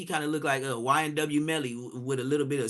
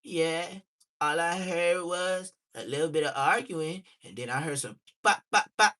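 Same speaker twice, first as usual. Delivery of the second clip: acting mode; 4 dB louder than usual. Shown as a demonstration. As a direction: replay it in full character as the snitch. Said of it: "I gotta get back in acting mode".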